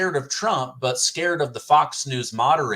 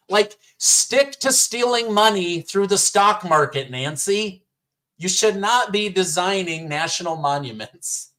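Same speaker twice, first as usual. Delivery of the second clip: laughing scold; 5 semitones higher than usual. Real, not acted. Scolding Pelosi mid-laughter.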